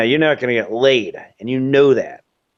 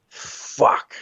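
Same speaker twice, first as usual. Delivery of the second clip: a soft unvoiced fuck under the breath; whispered curse; 5 dB quieter than usual. Middle-aged man curses to himself, whispering. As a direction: mutter it to yourself in dismay. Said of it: "they're gonna be like".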